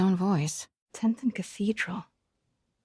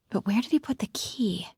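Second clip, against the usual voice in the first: hushed whisper to herself. Real, not acted. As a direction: breathe it so no one hears. Sneaking through Osborn house.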